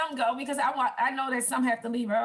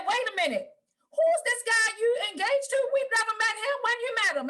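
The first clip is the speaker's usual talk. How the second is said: higher-pitched retelling of concerned questions; mildly alarmed family; 7 semitones higher than usual. Retold or imitated. Family questions her about an unknown fiancé, mildly alarmed. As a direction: imitate relatives questioning a sudden engagement, mildly alarmed. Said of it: "My family was alarmed".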